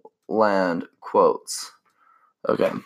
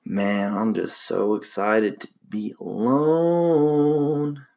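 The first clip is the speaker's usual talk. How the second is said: mock relief; much slower than usual. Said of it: "And you're just like".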